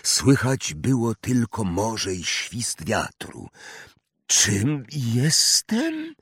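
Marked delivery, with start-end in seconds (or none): 4.3-6.1 breathless gasp. Acted. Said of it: "wydyszał Harry".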